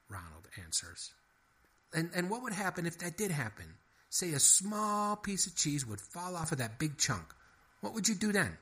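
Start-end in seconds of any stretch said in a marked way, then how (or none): 1.9-8.6 higher, flustered mouse voice; exasperated little mouse. A narrator's reading. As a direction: stop everything, mouse in a tizzy. Henry the mouse's lines.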